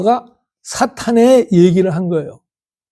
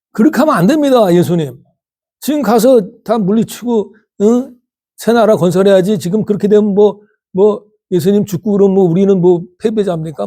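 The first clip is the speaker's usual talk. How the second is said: pleading, raised and higher, half-acted; Peter's protest; 3 semitones higher than usual. Peter pleading with Jesus not to die, raised agitated protest. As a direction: urge Jesus with mock alarm.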